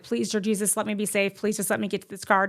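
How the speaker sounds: softly muttered plea; quiet prayer. Retold or imitated. Racing to the car, softly praying to Jesus. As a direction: pray under your breath. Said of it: "I am praying the whole time".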